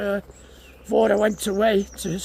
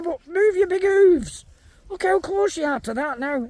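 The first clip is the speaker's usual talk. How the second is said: scolding; 5 semitones higher than usual. Real, not acted. Farmer scolding a Highland cow to move its hooves. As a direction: drag out the order to the cow. Telling cow off near feeder.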